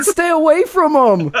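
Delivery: high, slow, booming warning voice; a slow mock-prophetic warning; ominous voice. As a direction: intone it like a voice from above. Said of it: "it said".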